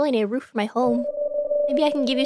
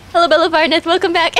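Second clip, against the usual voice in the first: lower, calmer greeting; 3 semitones higher, 4 dB louder than usual. Acted. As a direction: bring the pitch down for the welcome. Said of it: "lower voice".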